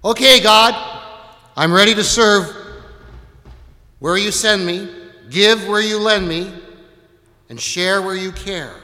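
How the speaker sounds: high, loud pledge to God in short phrases; acted eager prayer. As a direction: play a keen volunteer praying aloud. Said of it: "might go something like this".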